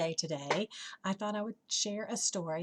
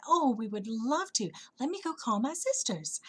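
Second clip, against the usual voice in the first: delighted butterfly; 4 semitones higher than usual. Acted. Butterfly offered shelter by the flower, mildly excited. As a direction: accept eagerly, with a lift.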